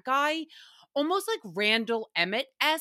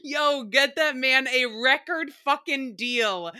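shrieking with laughter, real; laughing hard. Real, not acted. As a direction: yell it while cracking up. Cracking up at the song.

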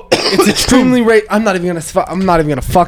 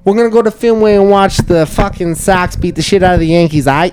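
put-on Boston accent. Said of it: "it's a Bostonian accent".

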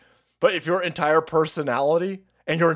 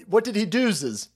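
mock slang; 4 semitones higher, slower than usual. Mocking the mangled grammar.

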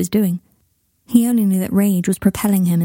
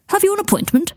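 a higher startled call; surprised cry; 12 semitones higher than usual. Acted. Secretary startled as Harry storms past, crying out. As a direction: call out his name in surprise. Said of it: "cried the secretary".

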